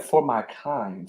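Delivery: slow, soft, disbelieving echo; stunned murmur. Retold or imitated. Recalling the colonel's insult, a slow stunned murmur. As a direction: murmur it back, slow and hurt. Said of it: "I was like".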